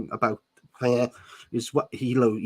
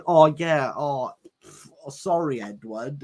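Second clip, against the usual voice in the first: sarcastic; 3 semitones higher than usual. Pretend. Mock reply to Edward.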